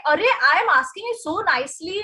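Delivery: fast, hammed-up complaint to a tree; mock indignant rant. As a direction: scold the tree like it owes you. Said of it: "Now you're furious".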